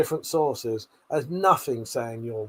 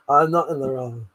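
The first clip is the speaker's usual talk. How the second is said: sassy denial. Real, not acted. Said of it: "the speaker gets sassy".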